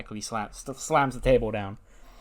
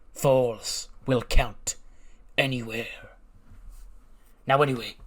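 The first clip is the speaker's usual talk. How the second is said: measured promo with pauses, lightly menacing; menacing wrestling heel. Acted. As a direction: address your rivals like a wrestling villain. Voices Karrion Kross's ring promo.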